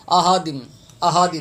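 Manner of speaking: "احد" with a light ordinary h, as ahadim; wrong h. Shown as a demonstration. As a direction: soften the throat h in "احد" to a plain h. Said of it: "یہ تلفظ بھی غلط پڑھتے ہیں".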